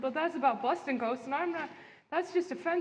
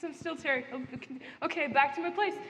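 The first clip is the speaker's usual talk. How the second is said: lightly voiced ghost Terry. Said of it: "He's like".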